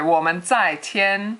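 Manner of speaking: 我们在 squeaked a bit too high; mock high-pitched missionary. Teacher imitates new missionaries saying 我们在 in a mock high pitch. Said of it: "very high pitched".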